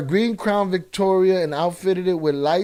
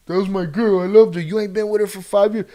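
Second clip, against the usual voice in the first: gangster voice; 5 semitones higher, 6 dB louder, faster than usual. Retold or imitated. Acted quarrel between two gangsters.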